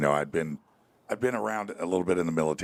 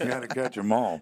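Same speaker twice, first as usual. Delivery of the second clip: higher, sing-song slogan delivery; Pokemon catchphrase; 5 semitones higher than usual. Retold or imitated. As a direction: quote the Pokemon theme like a jingle. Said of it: "Swap it out like Pokemon cards".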